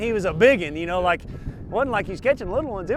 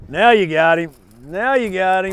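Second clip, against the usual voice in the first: excited; 8 dB louder than usual. Real, not acted. Urging during the catch.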